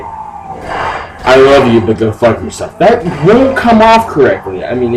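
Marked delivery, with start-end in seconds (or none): 0.0-2.8 drawn-out loving line. Acted. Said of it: "you probably shouldn't say".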